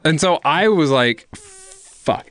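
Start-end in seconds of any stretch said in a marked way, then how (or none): 1.3-2.3 whispered curse. Retold or imitated. Retold stunned reaction at party.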